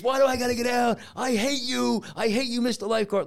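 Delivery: put-on high, loud child's tantrum voice; mimicked kid unloading. Lifeguard imitating a kid told to get out, high angry outburst. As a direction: hurl it like a furious little kid, mock-style. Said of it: "just unloading on me".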